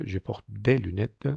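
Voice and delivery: slow JE PORTE DES LUNETTES, no s sounded; silent S. Shown as a demonstration. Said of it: "la S no la pronuncio".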